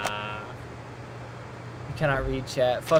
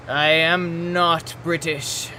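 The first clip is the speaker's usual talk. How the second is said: mock posh British, slow and drawn out; deliberately slow British accent; 3 semitones higher, 4 dB louder, much slower than usual. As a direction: put on a haughty British voice. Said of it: "you're doing the voice".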